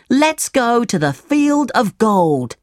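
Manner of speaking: high storybook Pinocchio, keen to go; eager Pinocchio. A narrator's reading.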